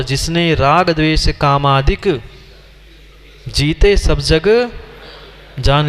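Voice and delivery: जिसने राग द्वेष कामादिक, then a pause before जीते सब जग, then जान लिया; slow recitation with a long pause after कामादिक; recited slowly with pauses. Shown as a demonstration. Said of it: "क्या लिखा है वहां पर?".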